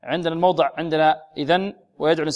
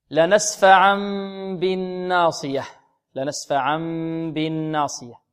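slow chanted Quran recitation; تلاوة مجودة. Shown as a demonstration. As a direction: recite with tajweed, drawn out. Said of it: "يتلو الآية". (تلاوة مرتلة)

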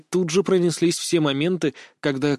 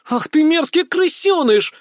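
much higher, louder shriek; roaring monster; 12 semitones higher, 5 dB louder than usual. A narrator's reading. Girl revealed as monster, roaring at him. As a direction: shriek it like a beast unmasked. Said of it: "взревела девчонка".

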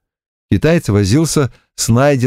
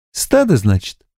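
giggling; 3 semitones higher than usual. Acted. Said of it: "хихикнула Ольга".

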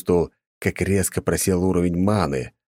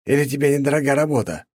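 higher, goading sneer; taunting; 8 semitones higher, faster than usual. A narrator's reading. Cruel viscount taunting the janitor, mocking goad. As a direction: needle the servant like a bored young lord. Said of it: "подначил дворника Михаил".

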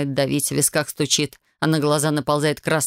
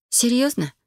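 high, disbelieving; can't believe he means it; wife stunned by the vacation offer; incredulous; 8 semitones higher, slower than usual. A narrator's reading. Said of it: "неверящим взглядом".

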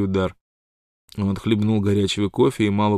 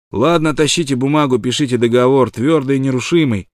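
louder decisive call; exclaimed; 5 semitones higher, 6 dB louder than usual. A narrator's reading. Wild Water agrees to the contract, loud exclamation. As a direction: slap the deal down. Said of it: "воскликнул Уайлд Уотер".

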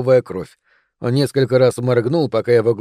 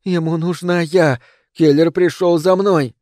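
panicked breathless whispers; 4 semitones higher than usual. Acted. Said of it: "испуганно переводя дыхание".

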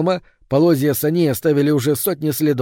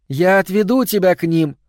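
put-on luring girl; 6 semitones higher, 3 dB louder than usual. A narrator's reading.

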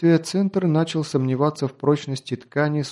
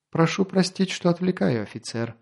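sly teasing; 5 semitones higher, 3 dB quieter than usual. Acted. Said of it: "Лёгкая ехидца в голосе и короткая, но многозначительная пауза".

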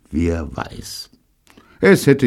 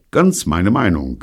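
Gordon's voice; 3 semitones higher, 6 dB louder than usual. Acted. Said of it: "gab Gordon zu".

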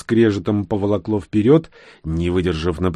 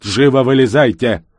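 loud, higher command; barked order; 4 semitones higher, 8 dB louder than usual. A narrator's reading. Rescuer orders passengers out of the car, barking. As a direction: order them out sharply. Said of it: "ещё раз рявкнул Всеволод".

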